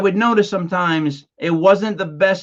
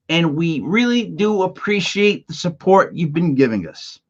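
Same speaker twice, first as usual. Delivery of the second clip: sarcastic. Real, not acted. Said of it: "I didn't mean to sound sarcastic like that".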